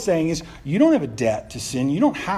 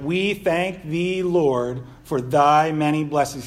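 drawn-out formal prayer; 4 dB louder, slower than usual. Retold or imitated. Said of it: "long, drawn out".

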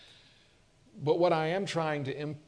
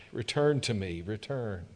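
gentle plea; 2 semitones lower than usual. Acted. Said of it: "God's call, repeated gently".

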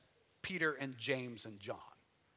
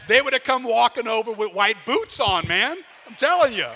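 loud, high, laughing through the words; laughing while talking; 7 semitones higher, 15 dB louder than usual. Real, not acted. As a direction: push the line out through laughter. Laughs while telling joke.

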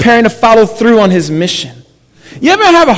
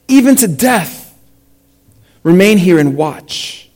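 measured public Bible reading with pauses; scripture reading. A narrator's reading. Pastor reading Mark to the congregation, measured scripture reading. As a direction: read it out deliberately, phrase by phrase.

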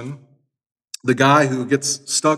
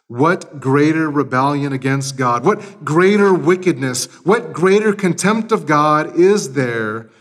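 preaching; 3 dB louder than usual. Acted. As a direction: hammer each "greater" harder. Quotes Luther with force.

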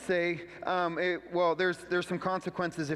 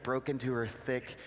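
normal talking voice

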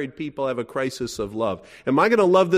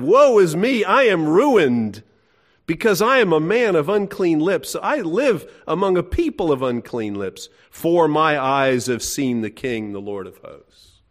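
Isaiah's lament; 3 semitones higher, 4 dB louder than usual. Retold or imitated. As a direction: proclaim Isaiah's despair, fading at the end. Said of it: "and what does he say?".

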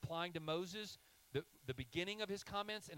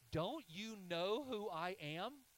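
rhetorical question; 7 semitones higher, 3 dB louder, slower than usual. Acted. God's rhetorical question, asked twice.

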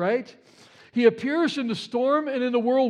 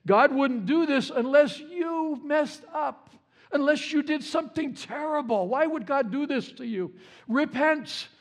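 higher-pitched accusing counselor, lightly acted; mock accusing; 5 semitones higher than usual. Job's counselors blame him for his suffering, mildly accusing. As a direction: press the accusation as a mock reproach.

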